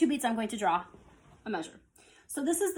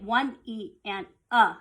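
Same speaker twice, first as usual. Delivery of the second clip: counting sixteenths; 4 dB louder, slower than usual. Shown as a demonstration. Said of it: "the last part of the sixteenth note would be a".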